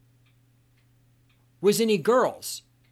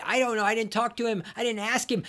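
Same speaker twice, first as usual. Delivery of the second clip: ordinary talk, nothing marked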